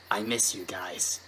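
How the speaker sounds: soft, low and lonely; lightly voiced sad filly; sad young filly.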